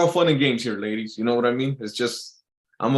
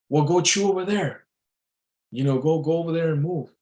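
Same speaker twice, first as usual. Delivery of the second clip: higher-pitched mock female voice; annoyed girlfriend; 5 semitones higher than usual. Girlfriend sending him away to chew, annoyed high voice. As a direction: imitate a bossy girlfriend, pitched up. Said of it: "And she says".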